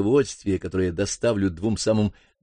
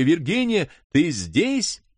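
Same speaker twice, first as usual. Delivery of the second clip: calling louder; 7 semitones higher, slower than usual. Acted. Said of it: "я крикнул вновь ещё громче".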